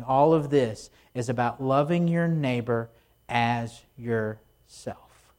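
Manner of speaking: slow right down on "as yourself", dropping low; deliberate emphasis. Retold or imitated. Preacher summing up Jesus' point, "as yourself" low, slow, weighted. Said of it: "putting the emphasis on the right syllable".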